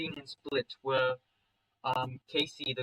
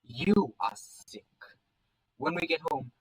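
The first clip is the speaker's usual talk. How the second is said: disgusted verdict; 2 semitones higher, slower than usual. Acted.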